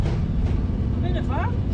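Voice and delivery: slow, drawn-out, high sing-song. Pretend. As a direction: stretch it out playfully with a rise.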